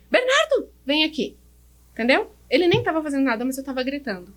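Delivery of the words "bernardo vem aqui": mock yell for her son; imitated scolding mother call. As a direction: call the child over sharply and high. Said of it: "Eu conversava assim com ele".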